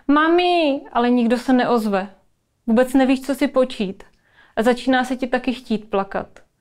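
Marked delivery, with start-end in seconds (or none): 0.1-0.8 put-on child calling out for mum, higher pitch; crying out. A narrator's reading. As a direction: cry for help to mother, drawn up high. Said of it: "Zakřičíš jenom". (dětské zvolání o pomoc)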